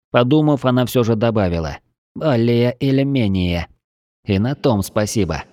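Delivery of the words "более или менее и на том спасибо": fish man. Acted. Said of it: "булькающим голосом".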